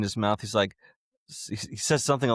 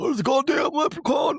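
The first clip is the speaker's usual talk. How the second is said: very high-pitched, dopey, moronic-sounding delivery; 4 dB louder than usual. Retelling how Ozzy calls the cops: imitating Ozzy moronically. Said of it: "in the most fucking moronic way ever".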